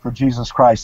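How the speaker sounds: fighting back tears as he says it; emotional, choked up. Real, not acted. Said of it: "forgive me for getting emotional".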